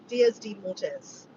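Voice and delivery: slow, careful Spanish in an Australian accent. Real, not acted. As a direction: sound out "Dias de Mortes" with Australian vowels. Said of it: "Am I saying that right with my Australian accent?".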